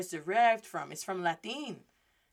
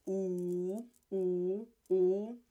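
drawn-out nosy "ooh"; nosy passerby; 2 semitones lower, 3 dB quieter, much slower than usual. Acted. Nosy person walks by and sees it, busybody oohing. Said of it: "the nosy person walks by and says".

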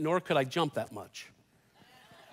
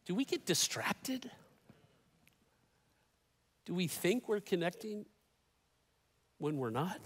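hushed questions; 8 dB quieter than usual. Real, not acted. Preacher hushes to rhetorical questions.

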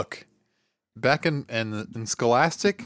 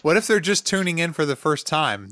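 laughing; 5 semitones higher than usual. Real, not acted. Laughing while making point.

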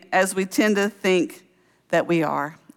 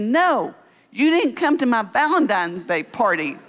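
put-on higher-pitched little-girl protest; imitated upset child; 4 semitones higher than usual. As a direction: mimic a four-year-old's hurt complaint. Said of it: "little four-year-old Caroline".

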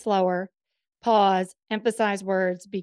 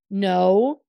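"No" stressed and drawn out; emphatic NO; 4 dB louder than usual. Shown as a demonstration. Showing how to get heard in an O R, emphatic "No". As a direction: lean firmly on "No". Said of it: "emphasize one word in a sentence".

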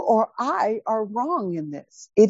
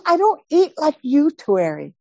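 indignant; 4 semitones higher than usual. Retold or imitated. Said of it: "She is hot".

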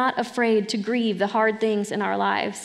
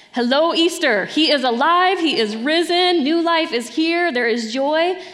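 higher and louder, ringing out with joy; joyful proclamation; 5 semitones higher, 4 dB louder than usual. Acted. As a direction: proclaim the resurrection like good news. Celebrating Easter resurrection from pulpit.

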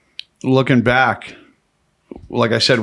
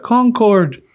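higher and louder, calling out Concord; the cop calls it again, higher and louder; repeated call; 11 semitones higher, 4 dB louder than usual. Retold or imitated. Cop repeating the destination to the confused prisoner, higher louder call.

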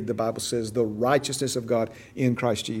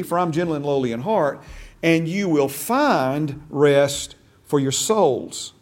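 slow, weighty quoting of Jesus, a bit louder; slow scripture quote; 2 semitones higher, 3 dB louder, slower than usual. Acted. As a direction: lay each phrase down slowly like a preacher. Slow emphatic scripture quotation.

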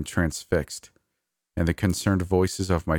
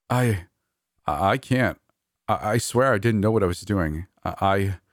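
faltering; 2 semitones higher than usual. Acted. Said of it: "my voice faltered".

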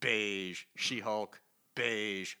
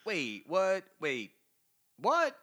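stunned disbelief; 6 semitones higher, 4 dB louder, slower than usual. Real, not acted. Shocked reaction to comic.

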